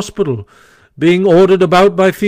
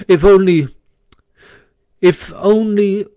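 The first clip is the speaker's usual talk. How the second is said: dubious; 8 semitones higher, 3 dB louder than usual. A narrator's reading. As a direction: leave it hanging, unconvinced. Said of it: "observed the Rat dubiously".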